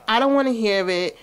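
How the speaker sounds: mock angry dad. Dad refusing to hear mom out, mild mock anger. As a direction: brush her off, lightly acted annoyance. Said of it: "And he's like".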